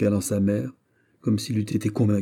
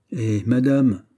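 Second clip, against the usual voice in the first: a touch of raised-voice protest; exclaimed; 3 semitones higher, 5 dB louder, slower than usual. Acted. Son interrupts his mother's defence of the English, exclaimed. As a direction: protest with mild indignation. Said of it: "s'écria Philippe".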